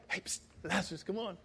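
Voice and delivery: hushed, furtive beckoning; soft little psst aside; secretive low call. Shown as a demonstration. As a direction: call softly as if sneaking someone out. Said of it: "It wasn't like".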